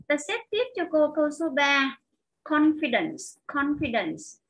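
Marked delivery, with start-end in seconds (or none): 2.4-4.4 "Confidence" stressed on CON, falling after; teacher's model of "Confidence", CON strongest; stress on first syllable. Shown as a demonstration. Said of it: "nó là âm một".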